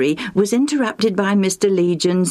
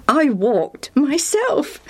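amused whisper; 8 semitones higher, slower than usual. Acted. Lucius amused, breathy whisper.

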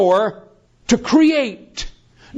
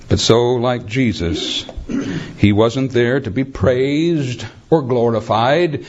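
tag; 8 semitones lower than usual. Real, not acted. Preacher drops to solemn tone.

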